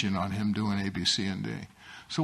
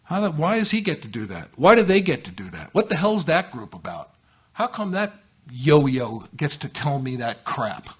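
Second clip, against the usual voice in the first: imitated griping, indignant questions; complaining newcomer. Newcomer griping about other people in A A, mock indignation. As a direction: gripe like an aggrieved newcomer. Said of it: "Most of the complaints for most of the newcomers".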